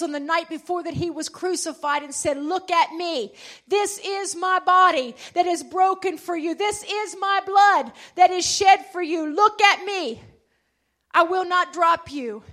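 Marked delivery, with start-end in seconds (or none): 2.4-12.4 louder, rising declaration; proclaiming. Acted. Jesus proclaiming to disciples at table, louder. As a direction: declare it to the whole room.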